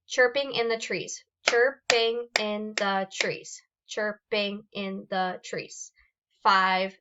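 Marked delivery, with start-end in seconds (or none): 1.5-3.6 "chirp-ing in the trees" slowly, one beat per syllable. Shown as a demonstration. Teacher clapping out syllables of "chirping in the trees" for students, slow and separated. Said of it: "how many times am I clapping". 3.9-5.9 "chirp-ing in the trees" slowly, one beat per syllable. Shown as a demonstration. Teacher clapping out syllables of "chirping in the trees" for students, slow and separated. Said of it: "how many times am I clapping".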